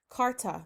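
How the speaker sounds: Carta pronounced with a clear, hard T; crisp T in Carta. Real, not acted. Teacher correcting her own slip, crisp T in Carta. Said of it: "why I said it like that".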